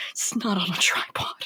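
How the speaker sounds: hushed whisper deep in the ear; low-volume unvoiced-sounding confiding whisper; acted whisper. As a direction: whisper it softly, like a nagging secret. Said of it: "I'm whispering deep in your ear".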